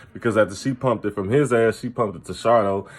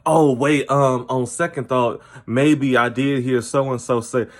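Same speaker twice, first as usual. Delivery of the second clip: mock nervous backtracking; 3 semitones higher, slower than usual. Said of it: "put some type of fear in people".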